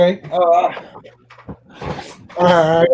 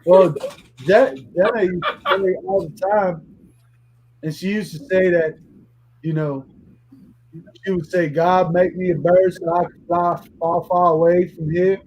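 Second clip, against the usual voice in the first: Forrest Gump. Acted. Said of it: "Tony Montana meets Forrest Gump".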